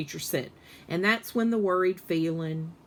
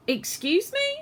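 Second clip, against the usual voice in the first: much higher, startled question; surprised principal. Acted. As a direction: catch her off guard.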